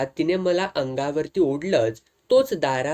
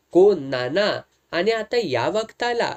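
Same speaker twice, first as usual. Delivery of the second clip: rising, surprised question; startled to find him at the door; a touch of surprise at a late visitor; 4 semitones higher, 3 dB louder than usual. Acted. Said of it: "मी आश्चर्य व्यक्त केलं".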